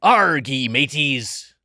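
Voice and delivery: half-committed pirate growl; a quick pirate "arr mateys". Pretend. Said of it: "can you do one for me".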